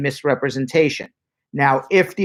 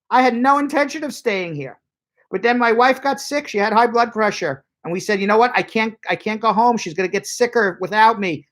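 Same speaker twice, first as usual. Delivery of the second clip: higher, earnest plea to the officer; acted immigrant explaining his case, higher pitched; pleading applicant; 5 semitones higher than usual. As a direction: beg the officer to understand.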